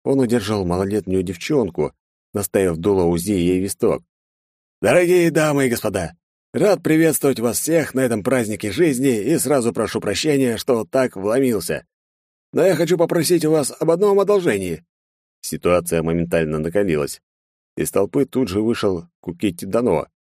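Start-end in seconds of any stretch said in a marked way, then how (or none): 4.8-14.8 put-on high, theatrical villain with a gun to a girl; a showman taking the stage, pitched high; mocking villain. Villain mockingly greets the aristocrats, high and theatrical. Intruder Taisyo addresses the guests.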